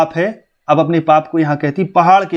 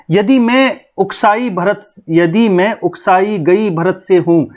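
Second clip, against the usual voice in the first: slow, higher-pitched verse reading; poem recitation; 4 semitones higher, slower than usual. Acted. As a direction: recite it slowly, drawing out the line. (धीमे, ऊँचे सुर में कविता पाठ)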